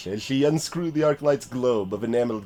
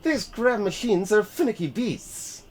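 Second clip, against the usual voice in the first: put-on Yorkshire accent; 8 semitones higher than usual. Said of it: "don't describe the accents".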